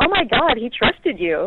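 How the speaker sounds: acted yelling, disappointed and frustrated. Retelling what was said to the niece: imitating own past yelling. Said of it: "I just was yelling, pretty much".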